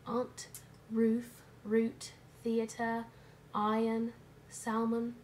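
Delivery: put-on light British accent, word by word; a playful put-on British accent; mock British accent. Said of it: "say it all in a British accent".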